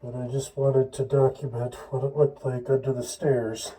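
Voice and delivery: muffled through a respirator mask. Real, not acted. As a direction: speak muffled behind a respirator. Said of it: "the muffled voice".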